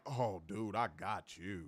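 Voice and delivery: low, soft private gloat; quiet gloating thought. Retold or imitated. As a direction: say it to yourself, knowing you have him. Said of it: "moments where I knew I had him".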